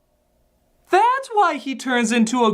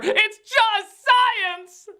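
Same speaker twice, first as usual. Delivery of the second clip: slow mock certainty; 12 semitones higher, much slower than usual. Mock explanation.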